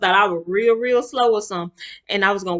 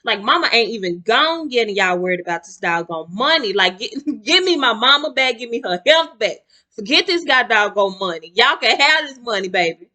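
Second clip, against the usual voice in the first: louder, heated rant; mad as heck; 4 semitones higher, 5 dB louder than usual. Retold or imitated. Grieving daughter venting at family about money, heated. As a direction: vent it all out, fed up. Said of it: "I'm mad as heck".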